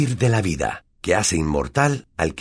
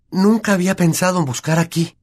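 thrilled, hushed; excited whisper; 11 semitones higher, 4 dB louder than usual. Acted. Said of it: "susurró excitada". (susurro emocionado)

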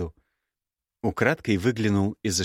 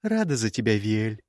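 sarcastic. Acted. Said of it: "Голос Герды сочился сарказмом".

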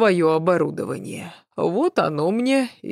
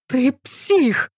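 panicked yell; 7 semitones higher than usual. A narrator's reading. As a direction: yell it out in fear. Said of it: "заорала я в панике".

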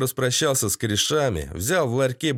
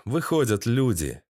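plain reading voice

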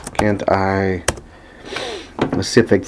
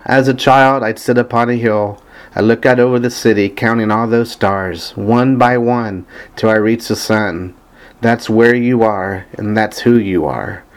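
even, measured recitation of song lyrics; reading lyrics aloud. Acted. Fan reading favorite lyrics to listeners, evenly recited. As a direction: recite the verse steadily, line by line.

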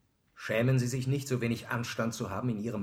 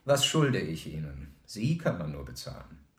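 contemptuous repetition; 5 semitones lower than usual. Acted. Wiederholt die Frage, verachtet den Verräter. (langsam, tief, verächtlich)

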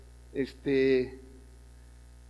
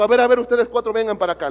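loud, raised call across the schoolyard; principal calling out; 6 semitones higher, 7 dB louder than usual. Retold or imitated. Principal loudly calling four girls over. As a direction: summon them sharply, a bit higher.

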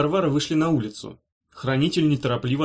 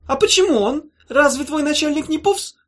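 high, loud furious witch catching a prisoner; shrill-edged raging witch; 6 dB louder than usual. Acted. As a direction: scream down at the trapped creature, rising to a kill threat.

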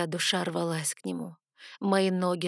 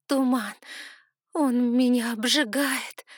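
higher, louder, slow cry of pain; frightened cry; 5 semitones higher, 5 dB louder, slower than usual. Acted. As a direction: cry out that the mist is burning you. Mist burns her feet. (испуганный крик, громче и выше, растянуто)

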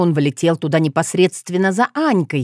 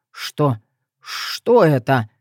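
stunned rasp; 4 semitones lower, much slower than usual. Acted. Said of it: "просипел неудачливый претендент".

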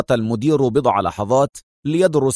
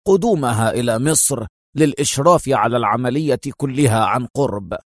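firm. Acted. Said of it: "وقال في حزم".

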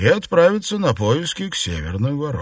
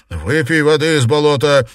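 commanding; 3 semitones higher, 5 dB louder than usual. Acted. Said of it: "приказал Лю Сянлянь".

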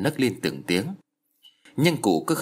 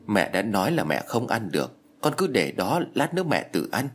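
teary pleading. Acted. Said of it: "Cụ Cẩm rơm rớm nước mắt".

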